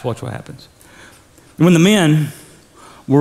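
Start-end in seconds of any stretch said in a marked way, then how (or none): 0.0-0.7 whispered "watch what happens". Shown as a demonstration. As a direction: hush it like a secret.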